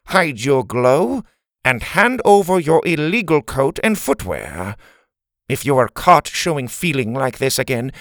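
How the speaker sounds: stern nasal principal. Acted. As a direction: lay down the law nasally. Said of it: "nasally voice".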